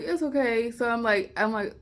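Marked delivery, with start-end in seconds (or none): 0.0-0.7 tearful. Retold or imitated. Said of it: "I immediately just start crying".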